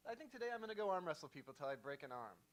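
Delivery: Jeff Goldblum impression. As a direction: gush it like a giddy scientist. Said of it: "And he goes".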